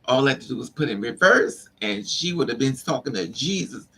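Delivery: ordinary talk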